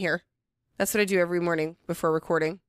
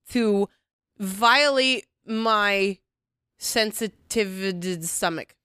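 drawn-out mock suffering, very slow; dramatic slow complaint; much slower than usual. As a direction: stretch each word like a martyr. Complaining about gross talk.

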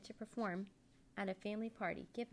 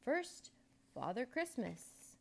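showman's announcement; 5 semitones higher, slower than usual. A narrator's reading. Magician announces puppets to the audience.

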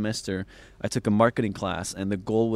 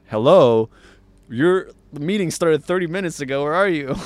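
annoyed caller; 6 semitones higher, 8 dB louder than usual. Retold or imitated. Retold caller scolding late friend.

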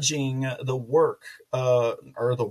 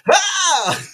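high, loud shriek then laughter; startled yelp into laugh; 7 dB louder than usual. Real, not acted. Vlogger startled by the judge's photo, shrieking. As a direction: jump and laugh at the picture.

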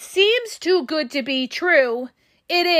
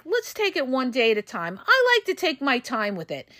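cool and relaxed; 3 dB quieter than usual. Pretend. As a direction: say it casually, unbothered. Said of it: "kick back and be very, like".

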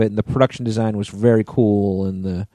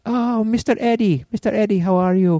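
waitress voice; 11 semitones higher than usual. Retold or imitated. Retelling the waitress greeting Eddie Izzard, high imitated voice. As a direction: lilt it up high as the eager waitress.

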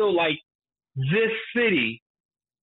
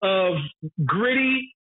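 laughing through it, pitched higher; laughing rant; 6 semitones higher than usual. Real, not acted. Ranting to co-host about the worst police, laughing. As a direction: break into laughter mid-rant, voice riding high.

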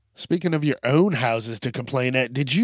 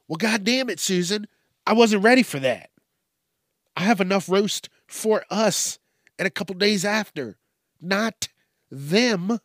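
exasperated dad; 5 semitones higher than usual. Acted. Voices the dad's outburst at wife.

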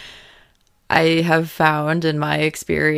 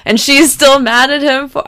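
much higher and louder, real passion; passionate yelling; 9 semitones higher, 5 dB louder than usual. Real, not acted. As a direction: let it burst out in real excitement. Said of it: "I'm sorry I'm yelling".

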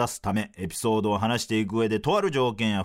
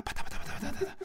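helicopter noise; 6 dB quieter, much faster than usual. Pretend. Helicopter sound again.

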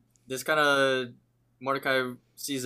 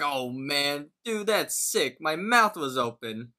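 mock disgust, pitch jumping higher; disgusted retelling; 4 semitones higher, slower than usual. Thomas protesting the prank to Muscle Man, mock disgusted. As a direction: groan it out as an imitated grossed-out victim. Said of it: "is disgusted by it".

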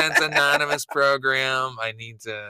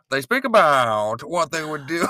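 lightly put-on mid-Atlantic accent; 4 semitones higher than usual. Shown as a demonstration. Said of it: "that's like a mid-Atlantic accent".

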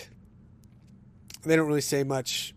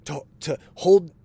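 heated retold retort. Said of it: "I said".

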